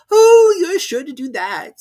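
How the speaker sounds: high, loud, slow teasing cat; grinning cat. A narrator's reading. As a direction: tease her sweetly. Cheshire Cat voiced.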